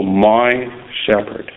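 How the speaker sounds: "my" held, then a pause before shepherd; weight on "my", shepherd dropping away; stress on MY. Shown as a demonstration. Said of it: "The emphasis on the word "my".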